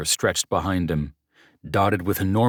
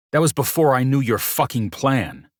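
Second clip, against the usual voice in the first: spat out; 8 semitones higher, 4 dB louder than usual. A narrator's reading. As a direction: spit the words angrily, louder. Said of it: "I spat".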